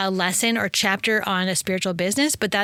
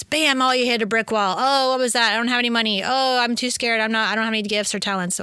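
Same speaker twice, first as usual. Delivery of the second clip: mock panic; 2 semitones higher than usual. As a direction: play up the dismayed excuses. Acts out hitting brick wall, panicking.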